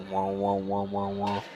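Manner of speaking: low, monotone wah-wah noise; droning mock sound effect; imitated zoom noise.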